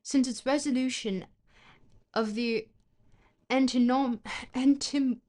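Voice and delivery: reading in a put-on British accent; stumbling British-accent reading. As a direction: read it out as a mock Brit. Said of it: "does the British accent come from the face".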